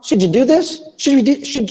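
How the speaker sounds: high-pitched American linking, "should-joo"; American blend of "should you", lifted rising question; American accent. Shown as a demonstration. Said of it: "Maybe last one".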